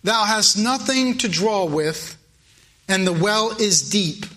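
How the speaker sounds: a hint of the skeptical woman at the well; questioning woman. Preacher reading the woman's doubting reply to Jesus. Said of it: "The woman saith unto him".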